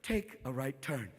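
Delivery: low, soft, slow computer voice; drawn-out eerie car computer; talking car. Acted. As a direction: speak slowly as an all-knowing machine. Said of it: "All of a sudden the car goes".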